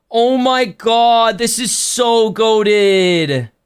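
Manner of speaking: slow, drawn-out amazed gush; marvel, stretching every word; awed delight. Real, not acted. Streamer marveling at his favorite blind box, slow awed delight.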